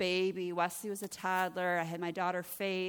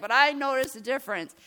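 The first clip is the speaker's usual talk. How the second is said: high, loud mock protest; imitated husband's admission; 7 semitones higher, 11 dB louder than usual. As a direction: blurt it out as the husband. Husband's quote continues, raised voice.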